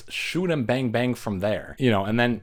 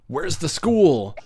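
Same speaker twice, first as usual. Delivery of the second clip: slow, higher and louder mock of the doctor; mock Loomis; 7 semitones higher, 4 dB louder, slower than usual. Vlogger mocks Loomis asking Jamie for the school, slow and higher. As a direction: drag the question out like a clueless old doctor. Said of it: "and he's like".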